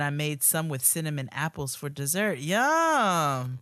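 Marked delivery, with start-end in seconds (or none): 2.4-3.6 savoring yum. Acted. Showing food pictures.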